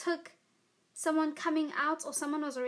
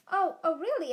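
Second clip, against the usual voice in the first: raised, louder "really?"; mock surprise; 4 semitones higher, 6 dB louder than usual. Answering the teacher's jab with mock surprise. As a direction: feign being taken aback. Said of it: "And I'm like".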